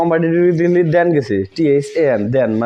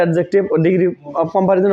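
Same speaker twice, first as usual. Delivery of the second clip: slow term dictation; much slower than usual. Shown as a demonstration. Naming grammar term for students.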